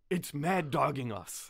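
slow, drawn-out imitation of fright; mock scared voice. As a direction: retell it as if spooked. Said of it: "in a very scared voice".

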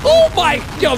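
high-pitched, astonished outbursts; amazed exclamations. Real, not acted. Viewer watching him actually fly with thrusters, amazed.

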